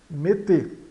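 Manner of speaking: "mete" ending on closed E, falling; closed final E. Shown as a demonstration. Teacher sums up verb endings, "mete" with closed final E. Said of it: "no final dos verbos soa E fechado".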